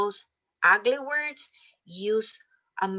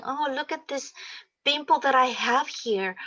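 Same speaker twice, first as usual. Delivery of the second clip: mock complaint; 5 semitones higher than usual. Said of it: "instead of saying".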